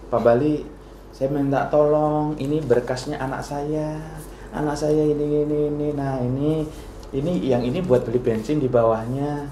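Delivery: lightly voiced citizen slipping a bribe; a hint of a pleading citizen. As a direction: coax him quietly for a favour. Citizen asking favour with bribe.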